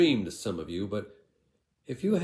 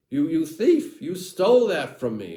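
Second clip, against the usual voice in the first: higher, louder outraged cry; angry accusation; 7 semitones higher, 8 dB louder than usual. Acted. Andrew yelling at his brother for stealing the water. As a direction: shout it at the thief who robbed you.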